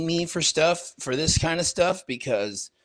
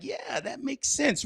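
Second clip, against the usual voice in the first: high; 11 semitones higher, 4 dB quieter, slower than usual. Retold or imitated. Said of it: "And I was like".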